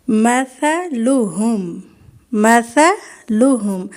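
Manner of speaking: مثلہم slow, soft ث with tongue between teeth, no س sound; soft tha in مثلہم. Shown as a demonstration. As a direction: stretch out مثلہم gently with a soft lisped ث. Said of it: "اس کو آپ نے اتنے اچھے طریقے سے ادا کرنا ہے". (مثلہم نرمی سے، ث کی آواز زبان دانتوں کے بیچ)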